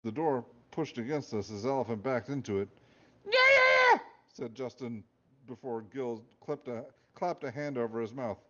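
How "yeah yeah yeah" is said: high, loud blurt. A narrator's reading. Justin blurts, then silenced.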